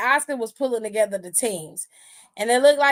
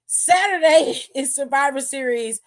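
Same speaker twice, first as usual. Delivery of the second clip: whispered through a laugh; half-laugh, hushed; giggly whisper; 3 semitones higher than usual. Real, not acted.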